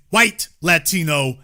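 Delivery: WHITE set off firmly before Latino; stress on WHITE. Real, not acted. Defining their ethnicity for listeners, stress on WHITE. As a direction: lean on WHITE, not on Latino. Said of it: "emphasis on the word".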